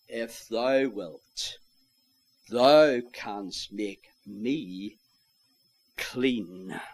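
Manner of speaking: slow, drawn-out pleading plea; beseeching. Retold or imitated. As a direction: beg him slowly, word by word. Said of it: "beseeching him".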